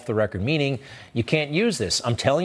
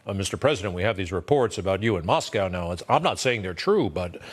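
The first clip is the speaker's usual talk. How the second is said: lightly acted, lower confidential delivery; J Edgar Hoover routine; 5 semitones lower than usual. Comey briefing the president on reports, lightly mimicked hedging. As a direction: drop the voice a little, feigning reluctance. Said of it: "pulls a classic J Edgar Hoover".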